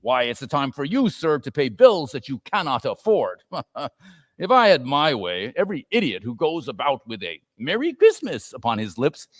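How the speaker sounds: a hint of a sneering old miser; scornful Scrooge. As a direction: grumble with disdain. Scrooge rants about Christmas.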